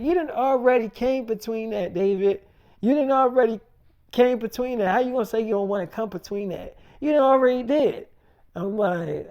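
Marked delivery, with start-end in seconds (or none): 0.0-8.1 raised, pitched-up indignant scolding; heated retort. Retold or imitated. Girlfriend scolding David for coming between them, heated. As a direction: throw it back at him, worked up. Woman angrily calling David out.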